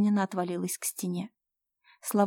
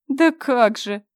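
loud, higher booming challenge; defiant thunder; 4 semitones higher, 10 dB louder, much slower than usual. Acted. Fyodor defies his stepmother, booming. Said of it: "с вызовом прогрохотал".

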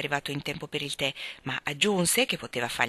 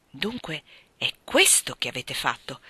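a lower, different voice, indignant; indignant outburst; 3 semitones lower than usual. Acted. Young man confronts the vicar about his visit, indignant outburst. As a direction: accuse him as you leap up. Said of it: "esclamai io saltando in piedi".

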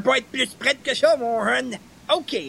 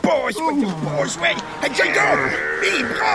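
calling out; 3 semitones higher, 3 dB louder, slower than usual. Acted. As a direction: shout at Jacob to grab the arms. Yelling instructions during rescue.

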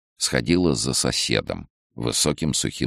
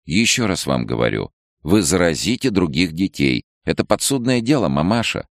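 annoyed; 6 semitones higher than usual. A narrator's reading. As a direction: lecture her with growing annoyance. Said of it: "негромко, но уже с досадой".

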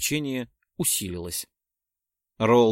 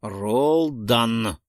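said loudly; 4 dB louder than usual. A narrator's reading. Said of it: "громко сказал я".

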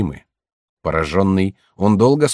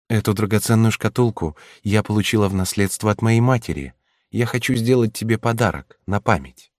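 нежный голос девушки; 3 semitones higher than usual. Acted. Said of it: "и сказала".

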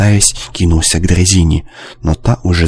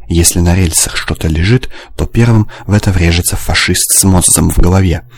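ordinary delivery

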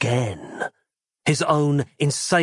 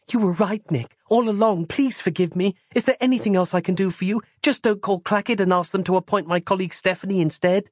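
tearful Roz; 6 semitones higher than usual. Retold or imitated. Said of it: "in floods of tears".

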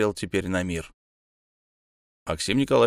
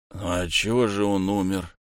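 put-on town drunk. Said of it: "невнятно пробормотал заплетающимся языком".

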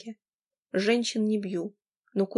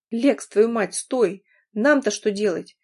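calling out; 5 dB louder, slower than usual. Acted. Friend calling after him.

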